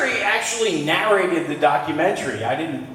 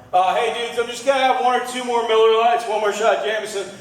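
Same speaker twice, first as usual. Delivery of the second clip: lightly voiced reasonable drunk, a bit higher; calm, sensible beer talk, slightly raised; sober promise; 5 semitones higher than usual. Comic to the crowd, a hint of a tipsy guy being sensible. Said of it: "it's literally like".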